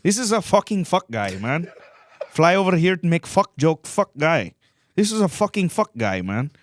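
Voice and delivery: hammed-up Indian heckler voice; mock Indian accent. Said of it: "doing the Indian accent in India".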